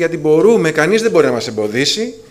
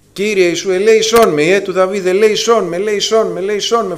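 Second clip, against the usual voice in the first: raised, pleading cry repeated; higher pleading mock cry; crying out for mercy; 4 semitones higher than usual. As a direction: call out to the Lord again and again, begging. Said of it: "Ο Βαρτίμιος φώνασε".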